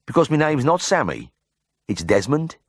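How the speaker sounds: put-on indignant patient with a broad Birmingham accent. A narrator's reading. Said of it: "muttered in a ripe Birmingham accent".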